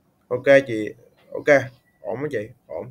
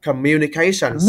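"communication skill" with a louder beat on CA; teacher's firm stress model of "communication skill"; stress before "-tion"; 5 dB louder than usual. Shown as a demonstration. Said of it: "nhấn trước cái chữ sần á".

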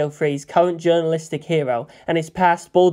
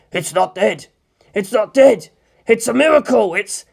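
louder, higher, disbelieving; amazed shout; 5 semitones higher, 4 dB louder than usual. A narrator's reading. Cameraman on the video cheering a miracle, louder. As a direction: shout with sudden hope.

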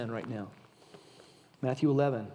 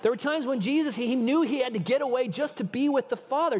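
laughing; 8 semitones higher than usual. Real, not acted. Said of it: "laughing after the joke".

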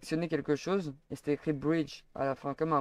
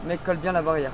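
tense, raised warning; urgent louder order; 3 semitones higher, 6 dB louder than usual. Real, not acted. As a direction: bark it urgently, spooked. Tense moment near monster.

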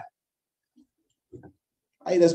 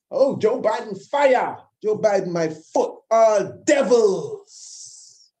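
mocking supporter; 3 semitones higher, slower than usual.

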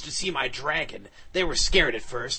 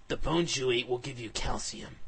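calm; 4 dB quieter than usual. Acted. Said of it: "I said very calmly".

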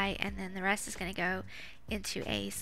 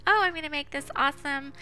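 higher, louder eager announcement; retold excitement; 5 semitones higher, 5 dB louder, faster than usual. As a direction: retell an excited plan, pitched up. Retells her excited announcement to mom.

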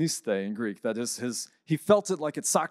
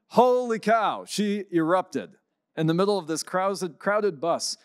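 amazed; 5 semitones higher than usual. Real, not acted. Dramatic turn in bus story.

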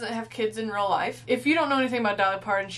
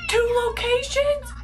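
slow, much higher disbelieving question; surprised; 13 semitones higher, 4 dB louder, slower than usual. Real, not acted. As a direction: drag it out in shock. Shocked reaction to the scene.

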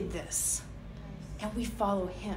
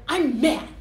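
put-on child voice; 4 dB louder than usual. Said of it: "You ever see little kids?".

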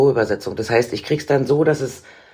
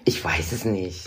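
extremely deep bass voice; 7 semitones lower, 7 dB quieter, slower than usual. Shown as a demonstration. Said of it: "Woher kommt die tiefe Stimme?".

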